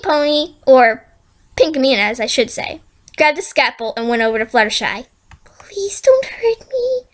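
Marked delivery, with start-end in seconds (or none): 5.4-7.0 high, slow, trembling plea; pleading. Acted. Fluttershy begs the villain with the scalpel, pleading. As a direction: beg for mercy.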